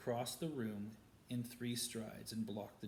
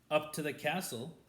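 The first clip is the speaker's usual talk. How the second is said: silky sneer; 3 semitones higher, 4 dB louder than usual. Acted. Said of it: "said Snake silkily".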